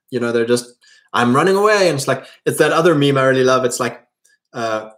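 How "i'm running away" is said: lightly voiced runaway, pitched up; higher, mildly hammed-up cry of retreat; mock fleeing coward. The individualist fleeing the three hundred, mock panicky.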